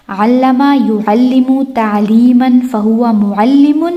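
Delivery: slow recital, "علم" as allama, "معلم" as mu'allimun; active forms. Shown as a demonstration. Teacher drills active line, slow recital with "علم" as allama. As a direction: recite "یعلم" as yu'allimu, "معلم" ending limun, rising. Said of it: "ہم نے یہ family یاد کر لی ہے".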